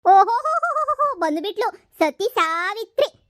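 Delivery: high, loud drawn-out mocking oho; loud sarcastic welcome, dragged out; sarcastic jeer. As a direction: sneer at her arrival, slow. Mother mocks the arriving in-law.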